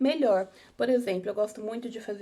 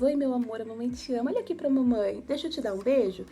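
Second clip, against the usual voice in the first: sweet singsong parentese, a bit louder; playful mother to baby; 3 semitones higher, 3 dB louder than usual. Shown as a demonstration. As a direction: coo at your little one to catch her eye. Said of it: "Olha assim pra ela, fazendo brincadeiras".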